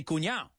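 cuñado said as "cuñao", no d; colloquial cuñado. Shown as a demonstration. Teacher telling listeners how to say it, cuñado without its d. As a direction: drop the d from cuñado, ending in "-ao". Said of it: "That's the way you say it".

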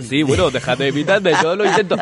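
congested, blocked-nose voice; stuffy nose. Real, not acted. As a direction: talk through a head cold. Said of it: "Estoy, estoy constipado". (voz de nariz tapada, constipado)

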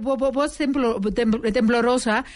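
stammered, shaky word; a demo of a trembling voice; stuttering shaky. Shown as a demonstration. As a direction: stumble over the word. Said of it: "voz temblorosa".

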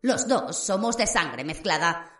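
lightly voiced sinister young wizard; Riddle's voice. Riddle speaks to Harry. (voz burlona y amenazante de Riddle)

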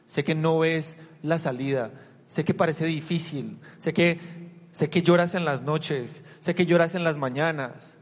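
slow, earnest, building sympathy; slow heartfelt preaching; slow compassionate preaching. Acted. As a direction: lean in and name their pain slowly.

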